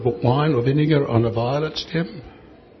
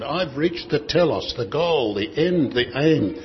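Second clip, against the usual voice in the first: mildly triumphant declaration; triumphal statement. Acted. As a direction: announce a goal reached, with a touch of triumph. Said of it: "This is a triumphal statement".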